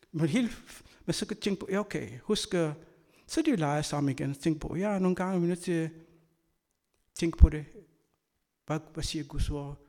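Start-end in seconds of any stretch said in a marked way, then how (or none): none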